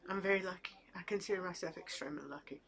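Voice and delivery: real emotion, voice dropping to a near whisper; holding back tears, speeding up; choked up. Real, not acted. Telling viewers how lucky she is with her family, choked up. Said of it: "Gonna get a little emotional".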